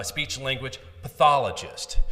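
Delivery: "speech language pathologist" said with loud, deliberate emphasis; "pathologist" stressed firmly and loudly; emphasized words. Shown as a demonstration. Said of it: "you emphasize certain words".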